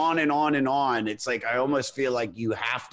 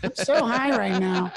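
stoner voice; 8 semitones higher than usual. Pretend. Continues stoner bit.

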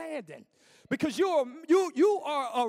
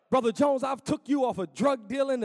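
booming voice of God; 5 dB louder than usual. Retold or imitated. God voiced speaking to believer.

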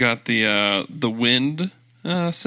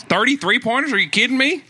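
worked-up, higher-pitched mock Southern rant; Southern accent; 9 semitones higher than usual. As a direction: insist in a put-on Southern accent. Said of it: "in a Southern accent".

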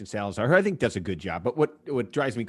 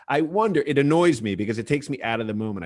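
ordinary talk, nothing marked

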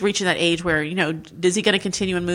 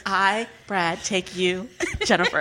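laughing imitation; slower than usual. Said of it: "but instead he said".

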